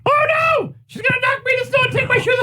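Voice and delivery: very high squeaky puppet voice; shrill hammy kid puppet; goofy muffled sock puppet. Pretend. Puppet dialogue.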